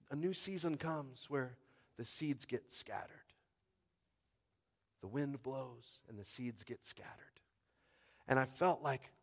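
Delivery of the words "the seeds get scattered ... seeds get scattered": slow, hushed whisper. Acted. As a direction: breathe the image out slowly. Quiet vision image.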